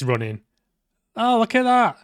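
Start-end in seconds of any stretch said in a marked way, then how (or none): 1.2-2.0 high, loud, thrilled yelp; excited shout. Real, not acted. Player shouting at a running character in excitement. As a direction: blurt it out in real surprise. Watching character suddenly run.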